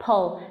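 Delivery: "pull" as a quick pl- with a short uh; blended consonant cluster. Shown as a demonstration. Teacher showing the sound blend, short falling "pull". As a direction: run p and l together in "pull". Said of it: "tổ hợp âm p và âm ờ kết hợp".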